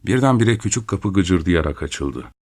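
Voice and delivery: plain reading voice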